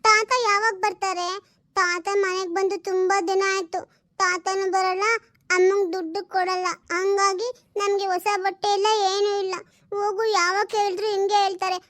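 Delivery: a lightly voiced small girl, sulking; little girl. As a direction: play the daughter whining for new clothes. (ಹಠ ಮಾಡುವ ಪುಟ್ಟ ಹುಡುಗಿಯ ಧ್ವನಿ)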